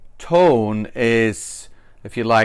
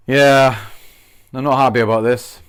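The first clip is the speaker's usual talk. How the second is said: louder, quick irritated complaint; annoyed; 4 dB louder than usual. Shown as a demonstration. Teacher demos unhappy people complaining. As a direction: sound fed up. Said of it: "They're not happy to say".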